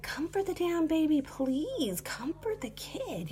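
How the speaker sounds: high, breathy-free urgent whisper; whispered frustrated plea; exasperated whisper. Retold or imitated. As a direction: hiss it under your breath at the parents. Frustrated inner plea about baby.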